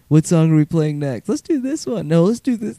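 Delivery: high, loud, frantic bandmates; tipsy chaos between songs; chaotic excited chatter. Retold or imitated. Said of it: "then it turns into just".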